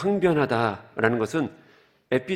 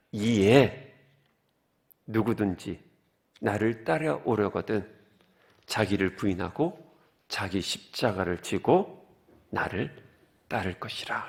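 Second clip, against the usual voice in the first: scripture reading; 5 semitones lower, 6 dB quieter, slower than usual. Acted. Reads scripture passage.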